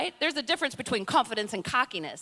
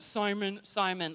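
stern scolding name call; 4 semitones lower, 4 dB quieter, slower than usual. Pretend. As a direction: call the name like an angry mama. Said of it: "he wasn't".

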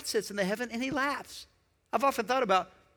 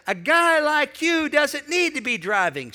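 stern dad; 7 semitones higher, 5 dB louder, slower than usual. Retold or imitated.

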